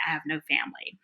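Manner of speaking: whispered, voice sinking low. Retold or imitated. Wife telling police she has no one, whispered. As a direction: breathe it out as a plea.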